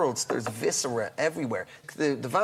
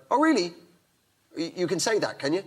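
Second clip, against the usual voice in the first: surprised query; 3 semitones higher than usual. Retold or imitated. Coroner's surprised question.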